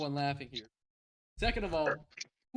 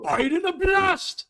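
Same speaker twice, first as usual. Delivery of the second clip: loud and slow; 10 dB louder, slower than usual. Acted. Punning exclamation among laughing friends.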